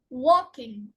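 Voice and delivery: WALKing, strong first syllable, light -ing; suffix left unstressed. Shown as a demonstration. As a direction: stress walk in walking. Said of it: "are not usually stressed".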